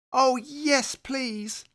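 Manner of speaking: high, eager bunny cheer. Acted. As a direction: beg happily for it. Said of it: "Little Rabbit cheered".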